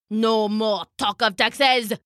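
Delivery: slow, emphatic tyrant's outburst; mock shriek, each word drawn out; shrieking king. King looms over the duck, slow theatrical shriek. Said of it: "he shrieked".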